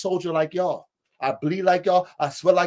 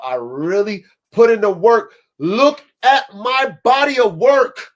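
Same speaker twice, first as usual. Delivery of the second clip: louder, punching "put" and "work"; emphatic louder repeat; 6 dB louder than usual. Real, not acted. To fellow dogmen, insisting he did the work, louder. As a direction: drive the point home, louder. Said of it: "is because I really put in the work".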